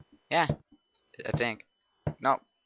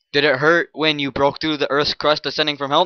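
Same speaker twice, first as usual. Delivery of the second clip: cheesy pickup line; 2 semitones higher, 6 dB louder than usual. Acted. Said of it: "I did it wrong again".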